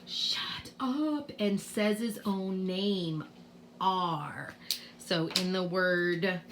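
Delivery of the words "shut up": mock gasp, then slow, drawn-out "shut up"; mock-mean shut up. Mean R tells the vowels off, in slow mock shock. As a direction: play the mean letter scolding, slowly.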